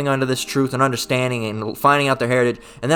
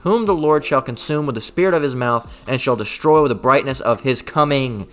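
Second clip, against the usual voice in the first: scripture reading. Acted. Preacher reads scripture aloud.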